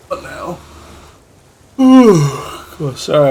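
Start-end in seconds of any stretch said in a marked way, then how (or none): 1.8-2.7 loud tired yawn; big yawn. Real, not acted. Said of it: "I'm yawning".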